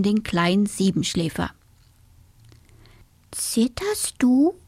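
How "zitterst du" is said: slow, breathy whisper; whispered question. A narrator's reading. The mouse whispers to her shivering friend. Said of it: "fragte die Haselmaus".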